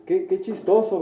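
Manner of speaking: mock mocking laugh. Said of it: "lo normal para una persona es burlarnos".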